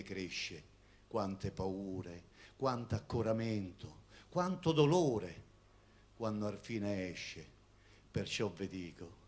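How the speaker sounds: slow, tender poem reading; poetry recitation. Acted.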